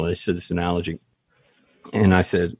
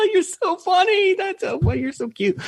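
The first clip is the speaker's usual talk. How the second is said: mock falsetto. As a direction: laugh it off like a besotted fool. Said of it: "you're like".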